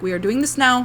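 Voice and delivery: imitated strict doctor, loose Indian-esque accent; firm but kind, lightly put-on Indian-esque accent. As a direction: lay down the law in an attempted Indian-esque accent. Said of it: "he was so strict".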